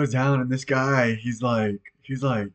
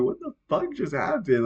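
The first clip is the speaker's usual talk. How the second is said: retold baffled question, pitched up; acting out mild bewilderment; confused; 5 semitones higher than usual. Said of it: "I was so damn confused".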